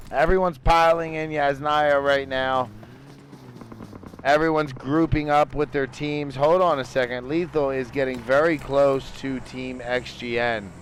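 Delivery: steady esports caster voice; play-by-play. Acted. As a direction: call positions and rotations live. Casting the next phase of the match.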